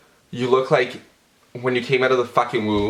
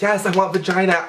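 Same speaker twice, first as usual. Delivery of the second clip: mock shout; 8 semitones higher than usual. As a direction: yell it like a ridiculous slogan. Mocking what falsies would say.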